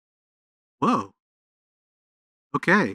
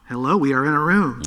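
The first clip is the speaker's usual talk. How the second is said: room reverb; 6 dB louder than usual. Shown as a demonstration. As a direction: voice with small room echo. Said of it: "I'm gonna hold down room".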